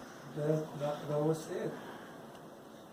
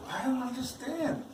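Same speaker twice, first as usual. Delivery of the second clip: higher-pitched, softer puzzled quote; retold bafflement; 7 semitones higher, 5 dB quieter than usual. New believer watching the pastor cry, puzzled. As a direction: mildly act out being baffled.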